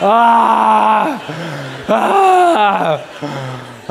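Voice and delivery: high, loud cry of embarrassment; a hammed-up cry of being caught; mock anguished cry. Pastor caught by his son, hammed-up loud cry. Reacting to son's rebuke.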